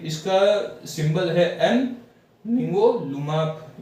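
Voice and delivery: निंगोलुमाब slowed, each syllable separate; slow demo. Shown as a demonstration. Teacher modelling the drug name for students. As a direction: say निंगोलुमाब slowly, piece by piece. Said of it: "इसको ऐसे pronounce करते हैं".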